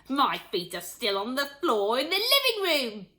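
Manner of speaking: lightly voiced cheeky grandma; old grandma voice. A narrator's reading.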